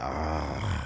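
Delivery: low, soft groaning "ah"; imitated fat man's sleepy wheeze, deep and low; heavy asleep-sounding breath. Podcaster imitating wide-awake coworker, low sleepy breathing groan. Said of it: "would be wide awake and he sounded like that".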